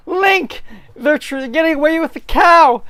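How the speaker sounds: high urgent yell; alarmed shout. Acted. Zelda calling Link as men steal the cow. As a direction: cry out as thieves take the cow.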